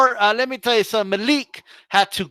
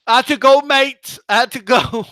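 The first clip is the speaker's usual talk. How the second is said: mocking imitation; 4 semitones higher, 3 dB louder than usual. Mocking Malik's excuse, then laughs.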